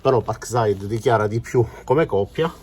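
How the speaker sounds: out of breath from crouching; winded, catching breath between words. Real, not acted. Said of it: "Scusate il fiatone".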